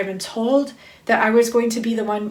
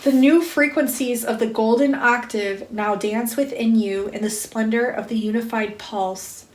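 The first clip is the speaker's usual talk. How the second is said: spiritual card reading. Acted. Reader to listeners awakening them to love, intoned spiritual reading. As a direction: read it as a measured invocation. Reads card message aloud.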